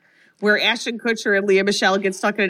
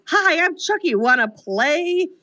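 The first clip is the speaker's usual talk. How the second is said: put-on higher, slow singsong kid doll; little kid voice; 6 semitones higher, slower than usual. Chucky's head spins around as he greets the mother, higher, slow little kid voice. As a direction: yell it like a creepy toy greeting, drawn out. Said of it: "still in a little kid voice".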